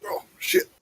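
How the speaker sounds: whispered curse under the breath. Real, not acted. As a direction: hiss it out in alarm. Spell cuts off suddenly.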